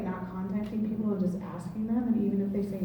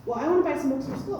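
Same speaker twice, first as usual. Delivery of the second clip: "wanna" tossed off quickly and a bit higher; quicker retold request; 3 semitones higher, faster than usual. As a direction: rattle off the request. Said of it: "I said".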